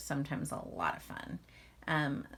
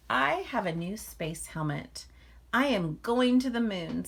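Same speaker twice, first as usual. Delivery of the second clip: eager little bear; 4 semitones higher, 5 dB louder than usual. Acted. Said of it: "said Little Bear to Mother Bear".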